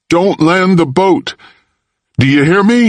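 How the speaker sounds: put-on urgent boy shouting into the phone. A narrator's reading. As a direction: beg them not to land. Boy urgently warning the ship.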